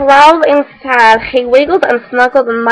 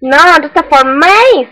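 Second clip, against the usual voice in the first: louder, slow and firm; possessive mouse; 4 semitones higher, 6 dB louder, slower than usual. Acted. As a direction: claim it all for himself. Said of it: "said the mouse".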